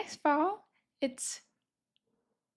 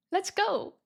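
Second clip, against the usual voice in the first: excited; 6 semitones higher than usual. Real, not acted. Teacher cheering class onward.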